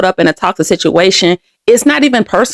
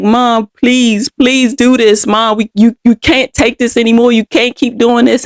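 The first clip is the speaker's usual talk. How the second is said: tearful pleading; 3 semitones higher than usual. Retold or imitated. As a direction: plead with your mother, mildly upset. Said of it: "I'm crying, but I'm like".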